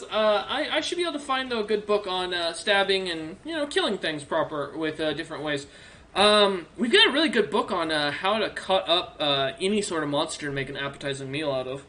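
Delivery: lightly voiced helpful orc librarian, eager; a friendly old bookkeeper orc, perking up.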